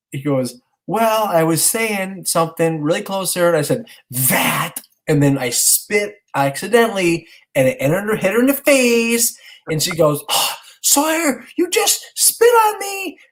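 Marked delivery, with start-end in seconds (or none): 0.9-9.4 lightly voiced child explaining himself, higher; a hint of a small boy's confession; sheepish kid. Son confessing his mishap. 10.3-13.2 high, drawn-out outraged little sister; imitated yell. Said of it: "she yelled at me".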